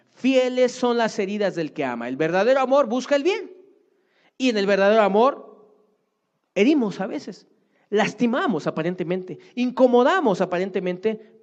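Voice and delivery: high, loud pulpit declaration; fervent preaching. Real, not acted. Preacher proclaiming true love to the congregation, high and loud. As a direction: proclaim it with fire to the flock. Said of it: "preaching climax".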